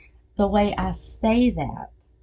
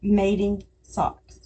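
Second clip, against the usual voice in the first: slow repeat; slower than usual. Shown as a demonstration. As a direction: say "Mating socks" again, calm and slow. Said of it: "say it like that".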